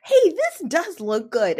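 high, loud and drawn out through laughter; laughing, mock excitement. Host mocks herself falling for the trailer, laughing excitement. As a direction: gush as if fooled all over again.

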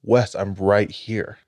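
slow, calm call of a mother's voice; drawn-out and lightly voiced, luring him closer; a hint of a ghostly mom calling; eerie mother's voice. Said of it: "She says".

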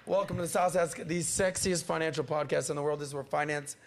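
rough, under-the-weather throat; throaty voice. Real, not acted. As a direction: speak through a sore throat. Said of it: "You can hear it in my throat".

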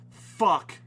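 dead flat monotone; flat, expressionless monotone delivery. Retold or imitated. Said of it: "in a very monotone voice".

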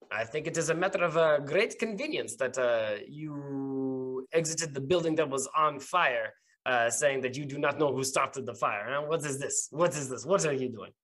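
lightly voiced suspicious captain; unfriendly captain. Captain questioning two people who left a fire, lightly voiced suspicion. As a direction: question them as a distrustful officer, lightly in character.

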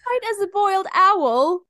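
high rising disbelieving question; amused disbelief. Real, not acted. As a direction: repeat it in disbelief. Incredulous echo of phrase.

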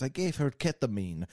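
put-on Russian accent. Nurse tells the doctor, in mock Russian accent. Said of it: "lady's now Russian".

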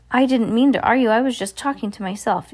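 high, anxious excuse to the leader; crying out. A narrator's reading. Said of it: "The witch cried out".

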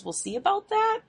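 high sarcastic quip; snippy, dismissive tone; snarky. Retold or imitated. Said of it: "a snarkier comment".

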